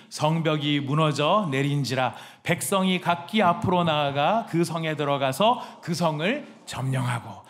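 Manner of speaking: slow, loud unison Bible reading; scripture reading. Real, not acted. Pastor leading the church in reading, slow and loud. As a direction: read it out together, slowly and loud.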